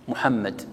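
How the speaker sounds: محمد ending on a still d, no case vowel; pausal ending. Shown as a demonstration. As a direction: stop on محمد with a vowelless final d. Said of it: "إذا أردت أن تقف تسكنها".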